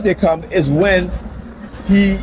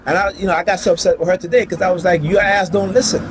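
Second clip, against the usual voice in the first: rising retold anger; 4 semitones higher than usual. Retelling how his ex cursed at him, getting angrier. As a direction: pitch climbs higher into an angry quote.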